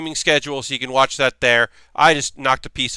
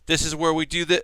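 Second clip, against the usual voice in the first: hippie voice. Retold or imitated. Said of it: "I'm adding a hippie voice".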